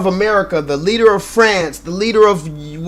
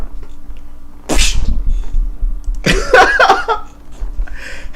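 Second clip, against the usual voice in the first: high wheezing laugh with no voice; laughing so hard no sound comes out; high breathless laugh; 14 semitones higher than usual. Real, not acted.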